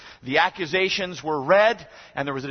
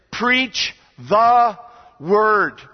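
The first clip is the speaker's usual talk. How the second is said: proclaiming loudly; 3 semitones higher, 5 dB louder, much slower than usual. Acted. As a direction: Preach the word, loud and high. Preacher proclaiming the key command.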